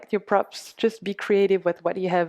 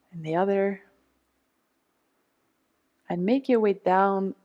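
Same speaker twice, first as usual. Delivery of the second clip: guided meditation. Acted. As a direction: talk them gently through the massage. Leads a guided self-massage meditation.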